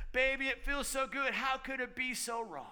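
a hint of a crooning seducer; seductive tempter. Satan as angel of light luring you, lightly crooned. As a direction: coax it like a smooth charmer. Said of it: "He's like".

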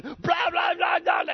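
loud, very high frantic babble; hammed-up panicked yelling of nonsense; amped, adrenaline. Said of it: "You were all amped, adrenaline".

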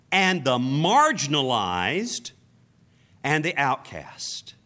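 slow, weighty preaching cadence; preaching emphasis. Acted. Preacher telling congregation God seeks the lost, slow and emphatic. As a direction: lean into each phrase.

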